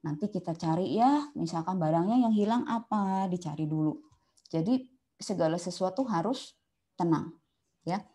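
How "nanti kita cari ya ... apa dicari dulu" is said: calm reassurance. Retold or imitated. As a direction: soothe him gently. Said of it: "Kita tenang dulu".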